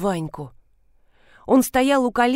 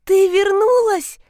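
put-on much higher, louder, slow little-boy cry; a boy nearly yelling with happiness; almost shouting child; 10 semitones higher, 6 dB louder, slower than usual. A son shouts to his returned mother, almost screaming. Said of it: "почти кричал Ванька".

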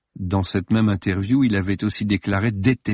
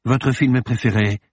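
a touch of icy coldness, cutting in; glacial; 3 semitones higher than usual. Acted. Morbus interrupting Judith, mildly icy. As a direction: cut her off, mildly cold. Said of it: "l'interrompit-il glacial".

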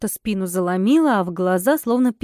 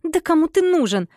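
furious; 7 semitones higher than usual. A narrator's reading. Heroine explodes at the lord, much higher and furious. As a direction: explode at him in rage. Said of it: "рассверепела я".

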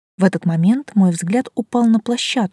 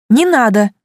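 a sudden high shriek, louder and higher; 5 semitones higher, 8 dB louder than usual. A narrator's reading. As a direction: shriek it out in a voice not your own. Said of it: "взвизгнула я не своим голосом". (пронзительный визг чужим голосом)

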